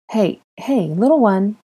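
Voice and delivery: pacify the little one; soothing. Acted. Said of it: "her soothing tone of voice".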